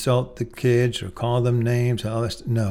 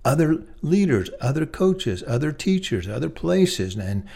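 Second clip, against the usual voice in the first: encouraging coach; 3 semitones higher than usual. Retold or imitated. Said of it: "You're a coach to them".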